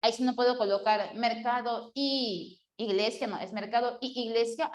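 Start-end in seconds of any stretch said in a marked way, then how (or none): 1.1-3.3 "y iglesia" with a long "y" meeting the i of "iglesia"; cacophony. Shown as a demonstration. Teacher shows where it fails, clashing ee in "y iglesia". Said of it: "ahí sí hay una cacofonía". 3.5-4.7 "y iglesia" with two ee sounds merged into one; cacophony. Shown as a demonstration. Teacher repeats the faulty example, doubled ee in "y iglesia". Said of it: "ahí sí hay una cacofonía".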